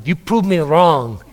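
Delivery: put-on a grumpy old man, slowed down; imitating old man. Pastor imitates Oom Frans scolding him, slow mock-grumble. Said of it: "he had that problem with his speech".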